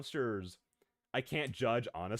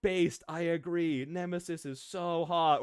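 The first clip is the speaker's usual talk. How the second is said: mock agreeing fan; 5 semitones higher, 4 dB louder, slower than usual. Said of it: "people being like".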